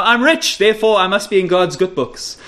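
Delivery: lightly voiced smug churchgoer; mock smug believer. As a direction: lightly parody the prosperity boast. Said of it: "You know".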